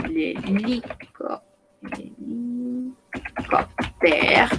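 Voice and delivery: "l'hélicoptère" drawn out very slowly and softly; slow syllable by syllable. Shown as a demonstration. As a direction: stretch out each syllable of "l'hélicoptère".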